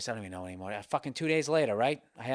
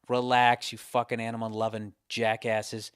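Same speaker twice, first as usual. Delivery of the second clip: scolding outburst; 3 semitones lower than usual. Real, not acted. Comic tells animal lovers to calm down, scolding. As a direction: cut in sharply on the audience.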